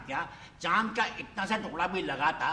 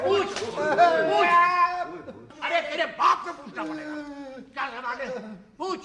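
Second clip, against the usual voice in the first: angry shout; 7 semitones higher than usual. Acted. Angry teacher demands the question.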